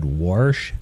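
"warsh" with an added r before sh; "warsh" as the regional form of wash. Retold or imitated. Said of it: "came up from Iowa or somewhere said".

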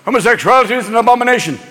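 quick, stern condemnation; pronouncing Pope. Acted. Pope condemning homosexuality, brisk pompous decree. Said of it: "The Pope is always".

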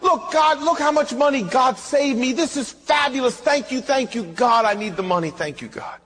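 playful retold delight; excited. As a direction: thank God giddily for the money. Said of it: "I was so excited".

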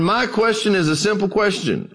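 a hint of an old country preacher speaking up. Old preacher standing to question the scholar, lightly voiced.

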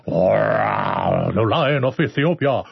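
very slow, lion-like proclamation; the host hams up his lion voice. Pretend. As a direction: roll it out slow like a proud lion. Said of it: "I love my voice when I do a lion".

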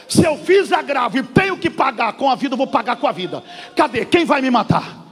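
loud, lightly voiced defiant apostle; defiant Paulo. Preacher voicing Paulo refusing the accusation, defiant and loud.

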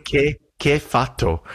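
high, slow Italian yell; mock furious Italian; screaming Italian man. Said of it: "Screaming at him".

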